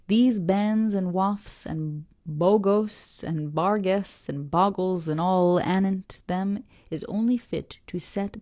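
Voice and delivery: put-on slow, gruff old sailor grumbling about lies; an old salt scorning the parsons' tales, slowly; old Yorkshire fisherman.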